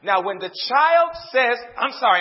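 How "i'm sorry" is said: mock child's apology, loud and grudging; sorry with attitude. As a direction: imitate a kid apologizing with attitude. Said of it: "they say it with an attitude".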